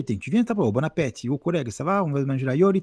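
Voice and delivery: lilting, quick Marseille banter; Marseille accent. Shown as a demonstration. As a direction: put on a singsong southern French accent from Marseille. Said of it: "si je parle à Marseille".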